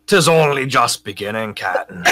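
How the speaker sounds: lightly voiced old-time pirate; a hint of a sea dog's brogue; pirate crewman. Crewman answers his captain in battle, light pirate voice.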